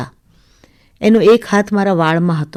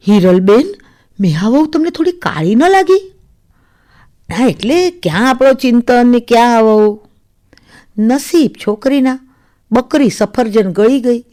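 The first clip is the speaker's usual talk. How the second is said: lightly voiced catty neighbours; a hint of disapproving gossip; 3 semitones higher than usual. Neighbours remark to mother-in-law on the new bride, lightly catty.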